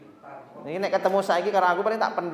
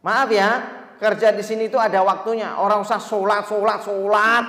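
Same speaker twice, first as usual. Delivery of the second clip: louder, pushy boss lecture; boss scolding; 4 semitones higher, 5 dB louder than usual. Retold or imitated. Boss telling worker prayer time is over, louder scolding. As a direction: lay down the rules to the worker.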